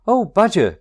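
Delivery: a lost Rat begging at the door; cried out. A narrator's reading. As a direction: call out to Badger for help. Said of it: "cried the Rat".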